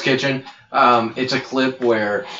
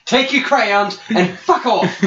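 much higher, slow shouted insult; mock chef yell; 10 semitones higher than usual. Chef dismisses a child cook, slow mock yell. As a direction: draw it out like a raging chef. Riffing chef yelling at kids.

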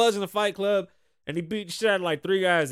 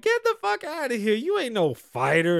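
rapper voice; 7 semitones higher, 3 dB louder than usual. Retold or imitated. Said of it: "the rapper's like".

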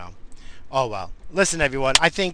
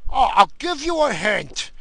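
mocking coworker impression; 8 semitones higher than usual. Coworker offering a quiz hint, mocking high voice. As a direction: chime in like an annoyingly keen quizmaster.

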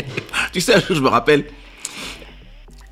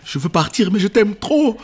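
mock girlfriend; 9 semitones higher than usual. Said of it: "elle fait".

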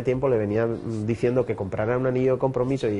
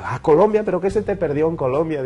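lightly acted disbelief, higher in pitch; incredulous boss; 4 semitones higher than usual. Boss questioning his employee's move to Colombia, incredulous. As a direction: echo it back as a mildly astonished question.

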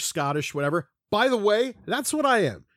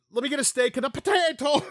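mock Irish accent; 6 semitones higher than usual. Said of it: "I'm Irish. I don't say".

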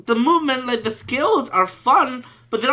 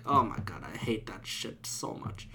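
whisper; 12 semitones lower, 16 dB quieter than usual. Real, not acted. Ranting about hating the game.

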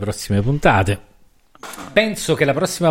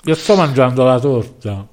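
talking through a mouthful of cake; mouth full; 3 dB louder than usual. Real, not acted. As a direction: speak around a bite of cake. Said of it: "ti sento che c'ha la bocca piena".

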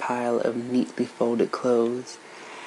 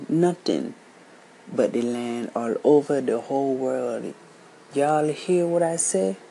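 put-on higher, louder firm lecture to the children; stern old storyteller; 3 semitones higher, 4 dB louder than usual. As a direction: drive the point home to the kids.

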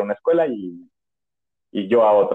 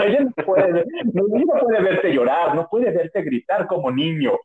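higher, firm mock-mom reprimand; lightly voiced mother telling her son to toughen up; scolding mother; 5 semitones higher than usual. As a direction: scold him like a strict mom.

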